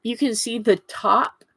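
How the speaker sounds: talking through a swollen lip. Real, not acted. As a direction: lips puffy from a bite, speak around it. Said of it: "that's why I'm a little weird sounding right now".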